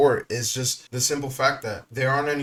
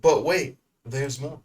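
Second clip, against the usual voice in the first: infomercial announcer; 2 semitones higher, 3 dB louder, slower than usual. Pretend. Infomercial catchphrase between clips.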